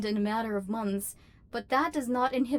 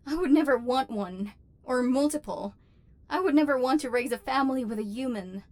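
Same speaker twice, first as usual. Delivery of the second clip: flustered denial. Acted. Protesting too much in denial.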